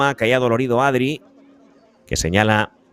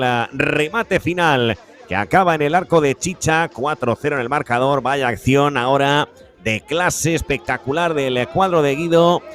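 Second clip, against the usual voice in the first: excited commentary; 5 semitones higher than usual. Real, not acted. After goal, still elated.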